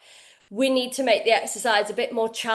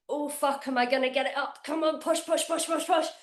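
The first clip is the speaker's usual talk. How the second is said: softer, mock strained self-talk on a heavy lift; imitating straining; 6 dB quieter, faster than usual. Coach shows how the last reps should feel, softer mock strain. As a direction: coax yourself through the last reps, under your breath. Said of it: "it should feel like".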